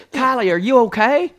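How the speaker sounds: high, loud feigned concern; acting like nothing happened; mock concerned dad. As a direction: play the innocent worried father. Dad fakes concern for waking child.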